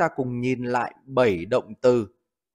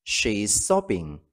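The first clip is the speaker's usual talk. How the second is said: slow model reading; 3 semitones lower, 3 dB quieter, slower than usual. Shown as a demonstration. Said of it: "Ví dụ, cô ấy đang khóc nức nở".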